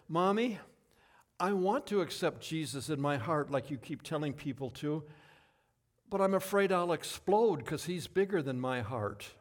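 lightly voiced little girl. Adopted girl confides in her mother, lightly voiced child. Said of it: "her little girl".

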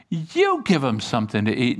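emphatic "You" as a command; stress on You. Acted. Jesus turning the problem back on his disciples, "You" emphatic. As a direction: lean on "You", then let the rest drop. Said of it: "you" is emphatic".

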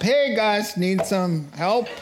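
breezy hail to some pals; casual friendly hail. Acted. Acting out an unexpected cheerful rescuer.

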